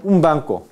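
"un banco" with the n of un said as m; assimilated nasal in "un banco". Shown as a demonstration. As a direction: say "un banco" run together as "um banco". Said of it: "Así ocurre la asimilación regresiva". ("un banco" con la n pronunciada como m)

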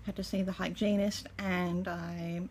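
talking while chewing; speaking around a mouthful; mouth full. Real, not acted. Seen 1: Cheeks puffed, lips pursed mid-chew between phrases while holding food.

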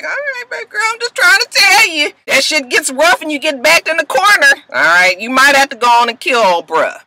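high, coaxing mock-fatherly; fatherly dad voice. Dad advising Olivia to kill, high and coaxing. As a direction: talk her down like a sly father. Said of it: "He was just like".

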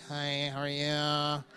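nervous neighbors. Retold or imitated. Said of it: "They was walking like".

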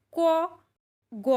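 ক and গ with little breath; letters with little air on the hand. Shown as a demonstration. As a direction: say ক, গ with barely any air. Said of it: "এগুলি উচ্চারণ করার সময় অল্প শ্বাসের দরকার হয়".

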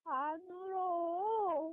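slow, tearful denial; crying. Real, not acted. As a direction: deny it through tears. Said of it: "너 지금 울고 있어".

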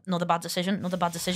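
low, soft, repetitive mock tutting; quietly tally each mistake; imagined disapproving granddad. Imagined granddad watches from heaven, in a low mock-disapproving voice. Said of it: "looking at me going".

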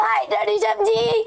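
squealing fan. Real, not acted. Fan squeals at raiding streamer.

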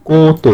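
"কত" said as koh-to, with a drawn-out "oh"; wrong o-vowel. Shown as a demonstration. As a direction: round the ক of "কত" into "koh". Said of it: "কয় ওকারে কো".

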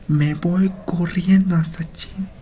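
slow breathless whisper of fear; scared whisper. Real, not acted. Gamer whispering in fright about running off. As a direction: whisper it like you want to run away.

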